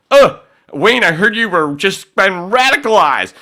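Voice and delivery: high, loud mocking whine; high mock voice of a critic. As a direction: mimic the critic with a sneer. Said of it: "How the fuck can you go".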